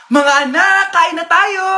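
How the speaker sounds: loud motherly call across the house. Acted. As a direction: call the kids to eat. Mother calling children. (malakas na tawag ng nanay sa mga anak)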